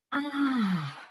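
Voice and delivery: soft long sigh out; dramatic sigh. Shown as a demonstration. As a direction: let the breath go with a sigh. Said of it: "And then again".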